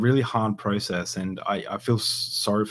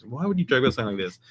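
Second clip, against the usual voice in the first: imitating annoyed dad; 5 semitones higher, faster than usual. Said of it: "he was like".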